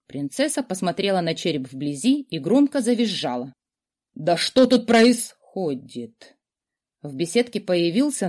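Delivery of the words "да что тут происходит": startled man. A narrator's reading. Man arriving, alarmed.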